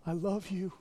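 Jesus telling Peter, fading to a whisper. Retold or imitated. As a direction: let it die into a whisper.

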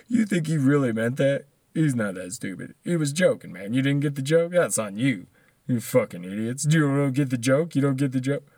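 lightly voiced defensive fan; mock indignant supporter. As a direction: mimic someone scolding people for missing it. Mimics defiant defenders of the president.

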